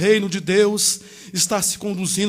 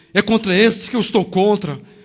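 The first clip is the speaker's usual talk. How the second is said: ordinary delivery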